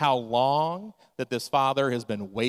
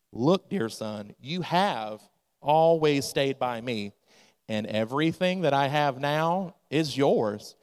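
gentle father; slower than usual. Acted. Father gently answers older son.

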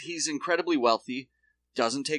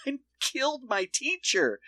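imitated confession in a raised, singsong pitch; mock confession; 13 semitones higher than usual. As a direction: blurt it out in a high voice. Acted confession to dinner friends.

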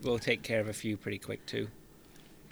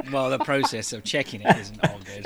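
laughing; 2 semitones higher, 4 dB louder than usual. Real, not acted. Joking about prostate exam.

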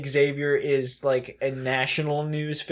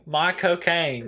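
slow "Michael Caine" in a London drawl, sounding like "my cocaine"; Michael Caine accent; 2 semitones higher, slower than usual. Shown as a demonstration. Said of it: "with a Michael Caine accent".

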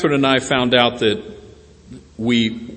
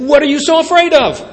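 much higher, louder, quick teasing question; Jesus questioning; 13 semitones higher, 6 dB louder, faster than usual. Retold or imitated. Preacher voicing Jesus teasing the frightened disciples, high and quick. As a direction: playfully ask the scared kids what's wrong. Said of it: "then he turns to the kids and saying".

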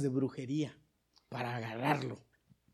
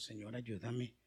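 mock plea; 8 semitones lower, 15 dB quieter, slower than usual. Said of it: "andamos diciéndole a Dios".

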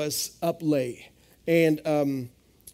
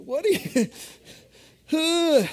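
baffled question; 10 semitones higher, much slower than usual. Retold or imitated. Husband baffled at sleep-talking wife.

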